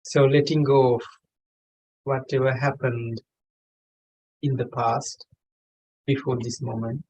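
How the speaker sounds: measured meditation guide with long pauses; unhurried meditation leading in short, spaced phrases; guided meditation. Real, not acted. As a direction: guide them gently, phrase by phrase, pausing long between. Leads a meditation session.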